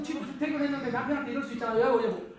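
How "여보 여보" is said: mildly heated mock complaint; a touch of acted indignation; wife fed up with mother-in-law. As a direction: confront your husband, lightly hammed up. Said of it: "시어머니한테 열받아가지고".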